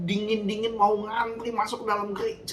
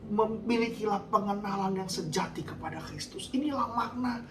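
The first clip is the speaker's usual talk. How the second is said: raised, driving sermon delivery; fiery preaching. Acted. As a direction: preach it hard to the congregation. Preaching at full force.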